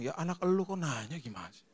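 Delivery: a lightly voiced puzzled child; confused kid. A puzzled son answering his shouting father, lightly voiced. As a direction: mumble it back like a baffled kid. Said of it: "Anaknya bingung".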